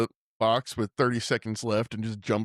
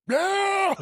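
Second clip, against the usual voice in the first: high-pitched drawn-out whoop; squealed, hammed-up celebration; mock cheer; 3 dB louder than usual. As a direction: cheer like a delighted fan. Cheering the retold fan put-down.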